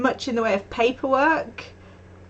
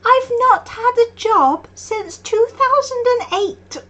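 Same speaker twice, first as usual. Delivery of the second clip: laughing lament; 13 semitones higher, 5 dB louder, slower than usual. Real, not acted. Self-mocking lament, laughing.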